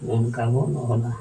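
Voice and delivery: slow, soft teacher's model of ᱱᱚᱝᱠᱟ ᱵᱚᱱ ᱚᱞᱟ; slow and clear. Shown as a demonstration. Teacher modelling the phrase slowly for the class. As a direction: say it slowly so pupils can follow. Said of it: "ᱪᱮᱫᱠᱟ ᱵᱚᱱ ᱚᱞᱟ?".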